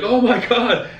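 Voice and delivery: high, thrilled jeweler friend; excited jeweler. Retold or imitated. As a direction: burst with excitement. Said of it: "He's like".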